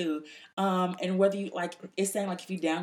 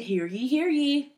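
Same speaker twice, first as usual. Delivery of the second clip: slow, drawn-out herald call; town crier; 7 semitones higher, 5 dB louder, much slower than usual. Pretend. Segment name called out grandly.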